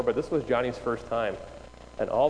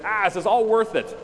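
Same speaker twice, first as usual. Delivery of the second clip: high, louder exasperated cry; exasperated outburst; 9 semitones higher, 4 dB louder than usual. Acted. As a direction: throw up a mock-weary plea, pitched high. Acted exasperated outburst to self.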